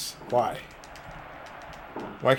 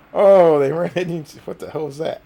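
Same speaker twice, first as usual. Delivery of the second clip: surprised; 6 semitones higher, 11 dB louder than usual. Real, not acted. Wrestlers collide.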